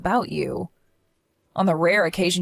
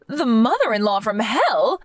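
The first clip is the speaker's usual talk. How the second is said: higher, affronted self-pity; wounded mother-in-law; 4 semitones higher than usual. Acted. Mother-in-law offended by her daughter's accusation, affronted whine.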